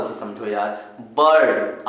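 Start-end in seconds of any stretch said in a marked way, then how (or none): 1.2-1.9 बर्ड with an "uh" vowel before R. Shown as a demonstration. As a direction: say बर्ड as "burd". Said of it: "आई के बाद आर आ रहा ना". (बर्ड में इ नहीं, अ की आवाज़)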